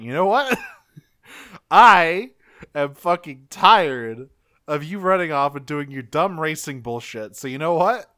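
hammed-up furious threat; mock angry rant. Villain Sturgeon threatening Knockout, mock furious rant.

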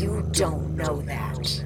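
low, slow rough near-whisper. Acted. Susie snarls back at Sage, in a very rough voice. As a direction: rasp it low and slowly. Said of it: "very rough voice".

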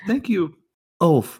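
high, polite thanks; gracious Gundis. Acted. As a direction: accept a gift in a high-pitched character voice. Gundis accepts a gift.

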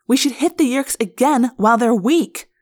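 growled. Acted. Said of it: "Rachel growled".

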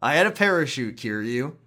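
loud, slow, drawn-out triumphant reveal; hammed-up heroic character. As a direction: announce the comeback dramatically. Jokes Mine returns by parachute.

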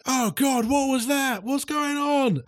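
high, alarmed cries; panicked yell. Acted. People outside reacting to the explosion, high and alarmed. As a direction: shout in panic at the blast.

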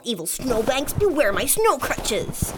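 slow, hammed-up heroic challenge. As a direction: declare it like a cartoon hero. Mock heroic challenge to snow.

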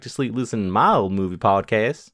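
light Southern accent; put-on Southern US accent. Shown as a demonstration. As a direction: read it as a Southerner. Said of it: "like, a southern accent?".

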